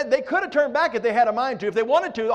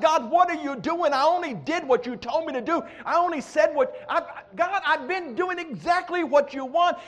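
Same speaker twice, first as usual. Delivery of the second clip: raised, exasperated plea to God; complaining prophet; 5 semitones higher than usual. Retold or imitated. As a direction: cry out at God, bewildered and higher. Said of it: "he had this thought".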